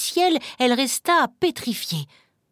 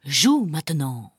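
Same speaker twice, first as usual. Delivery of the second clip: ogre's command; 6 semitones lower than usual. Acted. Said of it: "il lança".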